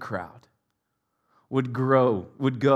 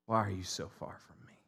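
anguished cry; 4 semitones lower than usual. Retold or imitated. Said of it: "And he cries out".

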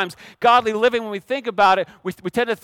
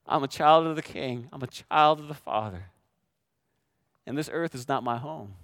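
quiet assurance; 8 semitones lower, 5 dB quieter than usual. Acted. Believer's quiet declaration, acted.

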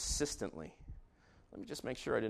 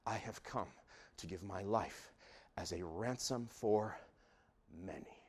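hushed quote; 3 semitones lower, 5 dB quieter than usual. Acted. Quiet quoting of Jesus.

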